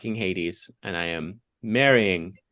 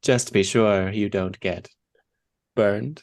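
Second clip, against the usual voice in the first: slow, menacing villain pun; Bond villain voice; slower than usual. Acted. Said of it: "my impression of a Bond villain pun".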